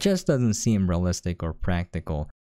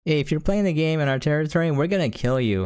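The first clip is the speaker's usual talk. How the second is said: quicker, higher, blunt mock villain plan; fast mocking retelling; 6 semitones higher, faster than usual. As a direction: rattle it off as a sarcastic parody. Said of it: "His plan is".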